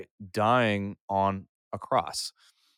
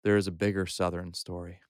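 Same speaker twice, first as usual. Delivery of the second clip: youth pastor voice. Shown as a demonstration. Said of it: "you ready for my youth pastor voice?".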